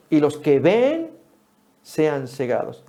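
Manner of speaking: slow, weighty pronouncement; solemn slow quote. Acted. Preacher quoting Jesus to the congregation, slow and solemn. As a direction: lay each word down gravely.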